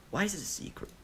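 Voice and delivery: put-on high little boy's question; curious child. A narrator's reading. Child Deidara suddenly asking Obito about his mask, high curious voice. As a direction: ask like a nosy kid. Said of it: "barrage of childish questions".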